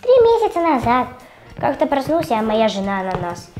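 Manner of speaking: acted quote. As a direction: deliver it like a dotty cartoon guy. Reply line of dialogue.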